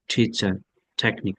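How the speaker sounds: "টিচার" and "টেকনিক" opening on a soft aspirated t; soft puffed t in "টেকনিক". Shown as a demonstration. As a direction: start "টিচার" with a light, breathy th-like t. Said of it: "থিটা soft হবে".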